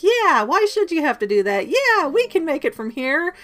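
high, loud mock-eager voices; eager boys agreeing. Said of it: "Ron and Harry are like".

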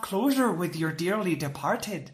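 put-on jokey Irish accent with laughter in it; Irish sales-pitch voice, amused; put-on Irish lilt. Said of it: "I'm doing an Irish accent".

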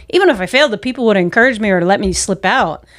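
confident realization. Shown as a demonstration. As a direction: say it as a bright discovery. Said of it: "now I know".

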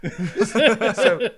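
loud burst of laughter; laughing. Real, not acted. Telling how he egged Jeff on, laughing.

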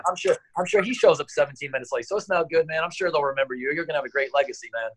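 sarcastic reassurance. Retold or imitated. Coach teasing Ray about showing up late, sarcastic. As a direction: fake comfort that really stings. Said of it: "I was like".

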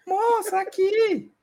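high falsetto woman calling out; mock lady's voice from nowhere; imitating a woman's voice. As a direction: call her like a hidden ghost lady. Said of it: "imita uma voz de mulher".

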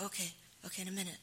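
mother half-ignoring her hungry son, voice soft and vague; distracted brush-off. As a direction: wave the kid off without really listening.

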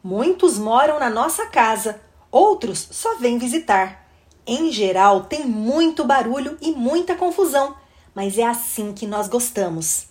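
put-on animated children's story reading; expressive read-aloud for children; story narration. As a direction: read the picture book with lively rise and fall.

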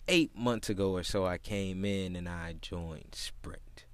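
soft, slow, low customer voice; odd customer impression. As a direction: imitate him, stretching each word out quietly. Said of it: "this is exactly how he talked".

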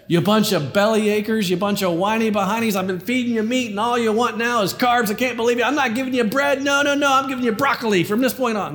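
mock scolding God. Preacher voicing God scolding belly achers, mock exasperation. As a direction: play an annoyed parent scolding kids. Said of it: "You remember what he said".

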